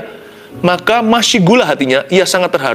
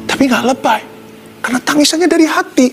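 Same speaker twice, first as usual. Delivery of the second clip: impassioned preaching; 13 semitones higher, 4 dB louder than usual. Real, not acted. Preacher building on real weeping.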